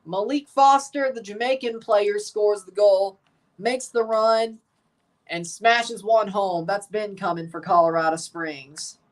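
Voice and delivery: walk through the goal again, measured; replay call. Real, not acted. Streamer recapping the goal for chat, measured replay call.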